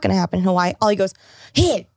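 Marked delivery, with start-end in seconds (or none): 1.5-1.9 drawn-out indignant warning, imitated; mock tantrum. Quoting Ollie objecting to the proposal, mock tantrum. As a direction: act out a friend's protest, stretching the words. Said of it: "he throws a full-on tantrum".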